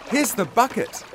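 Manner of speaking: high, eager call; a boy calling to his parents. A narrator's reading. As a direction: shout it out while rushing to help. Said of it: "cried Sione".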